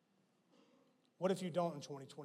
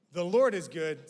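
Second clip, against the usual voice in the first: The Lord is good, shouted out with LORD hit hard; preached louder; 10 dB louder than usual. Acted. To the congregation, the refrain proclaimed loud. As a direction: proclaim it to the room.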